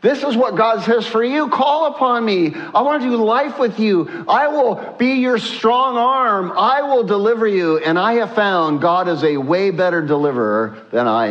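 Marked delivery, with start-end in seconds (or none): 0.0-7.8 impassioned preaching. Acted. Preaches God's promise with rising intensity.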